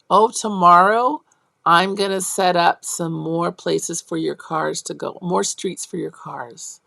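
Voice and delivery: put-on teacher talk to kids. Shown as a demonstration. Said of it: "how I would describe it".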